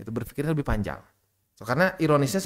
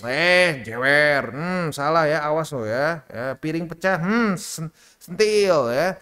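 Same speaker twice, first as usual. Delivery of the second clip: stern parent; 2 semitones higher, slower than usual. Retold or imitated. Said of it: "di Indonesia terus V O C".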